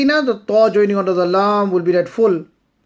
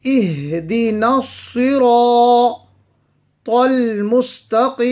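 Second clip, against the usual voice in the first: اهدنا الصراط recited with full ra and long alif, slightly higher; recited melodically; 5 semitones higher, 4 dB louder than usual. Shown as a demonstration. Teacher reciting the verse for students, melodic. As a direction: chant it with the tajweed applied. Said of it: "will be read full and stretched because of the alif".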